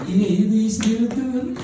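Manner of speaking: slow, sing-song devilish whisper. Retold or imitated. Devil whispering to the husband about his wife, sly. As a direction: hiss the temptation slowly. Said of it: "dia membisikkan".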